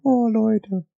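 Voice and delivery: high laugh into "oh, people". Real, not acted. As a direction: crack up and sigh it out. Laughing at own joke.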